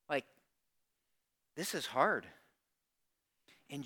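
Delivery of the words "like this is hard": soft, subdued admission; gently acted-out struggle; Mary's different tone. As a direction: confide it quietly, low-key. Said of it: "A little different tone".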